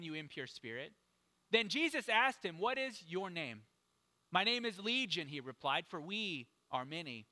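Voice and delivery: emphatic public reading of scripture. Acted. Preacher reading a Bible story to the congregation, emphatic scripture reading. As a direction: read it out with strong, punched key words. Reads the Bible passage aloud.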